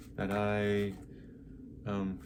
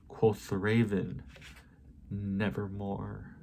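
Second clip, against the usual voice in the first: solemn refrain. Acted. Closing the poem with the raven's answer, solemn recitation.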